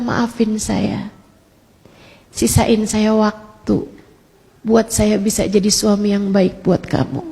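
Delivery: retold tender apology. Retold husband's apology on embracing her.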